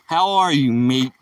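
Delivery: lightly put-on Australian greeting; attempted Australian accent. Streamer echoing a viewer's greeting, attempted Australian accent. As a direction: have a go at an Aussie hello. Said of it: "that sounds like Australian".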